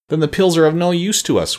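high, plaintive wail, mildly acted; storybook character's despairing wail. A narrator's reading. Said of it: "wailed the Pumpkinhead".

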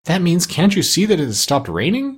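high-pitched parrot, translating. A narrator's reading. Parrot translates the dog's question, in a high voice. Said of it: "said the parrot in a high voice".

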